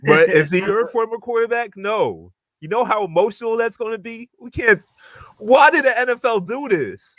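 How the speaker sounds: high, pleading whine about the matchup; mock-despairing plea to the league; emotional lament. Real, not acted. Dreading game against former quarterback.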